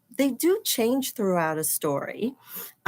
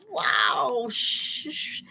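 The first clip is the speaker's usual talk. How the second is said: whispered wow and shushing; hushed whisper; much slower than usual. Acted. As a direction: hush the listeners, whispering. Hushing while reading dinosaur scene.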